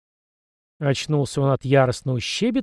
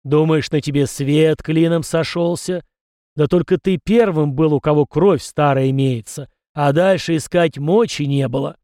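ancestor spirit's voice; 5 dB louder than usual. Acted. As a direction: speak as an old spirit from beyond, a little louder. (голос духа предка, громче и весомее)

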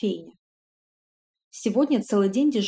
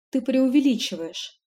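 theatrically weary retort; put-on sigh; 4 semitones higher than usual. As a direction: fake sighing dismissal. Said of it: "наигранно вздохнула".

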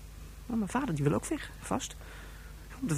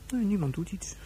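whispered despair; 3 semitones higher than usual. Acted. Alone in cave, despairing monologue.

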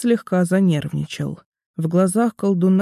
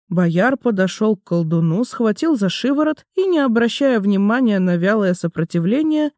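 ordinary delivery, nothing marked

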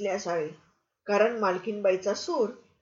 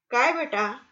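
lovingly; 3 semitones higher than usual. Acted. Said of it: "पाहुण्याने प्रेमाने विचारले".

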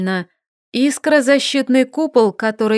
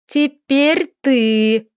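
slow threat; 3 semitones higher, much slower than usual. A narrator's reading. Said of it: "сверкая глазами".

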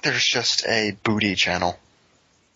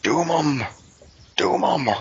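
raised, wailing command; Doom Guy apparition; 6 semitones higher than usual. Acted. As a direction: call it out like a haunting vision. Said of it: "he just saw Doom Guy appearing to him".

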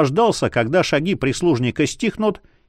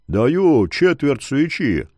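basso jailer; slower than usual. Acted. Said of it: "пробасил он".

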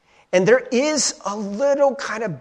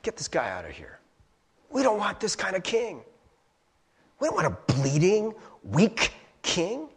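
mob rejecting him; 3 semitones higher, 4 dB quieter than usual. Retold or imitated. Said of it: "They're like".

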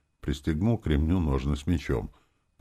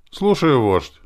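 much higher, small squeaky voice; squeaky little one; 10 semitones higher, 10 dB louder, slower than usual. A narrator's reading. Little helper answering his chief, squeaky and higher. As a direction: pipe it up like an eager little kid. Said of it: "пропищал малыш".

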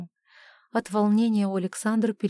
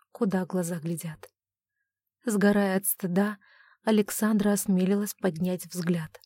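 usual speaking voice

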